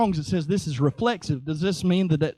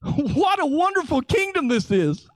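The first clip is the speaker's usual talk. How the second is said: high, laughing exclamation; laughing delight; 6 semitones higher than usual. Real, not acted. Preacher delighting in the kingdom to the congregation, laughing. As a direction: marvel through a laugh.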